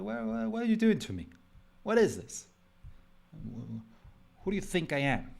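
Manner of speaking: high whiny machine pleading; complaining computer. Acted. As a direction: play the laptop as an overworked victim. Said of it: "That's my computer talking to me".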